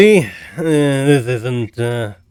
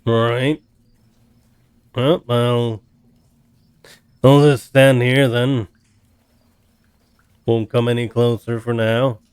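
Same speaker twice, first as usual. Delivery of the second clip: resigned, louder in-character reply; 9 dB louder than usual. Acted. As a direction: settle for it, a bit loud. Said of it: "He's like".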